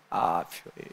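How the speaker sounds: whispered exclamation. Retold or imitated. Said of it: "elle dit".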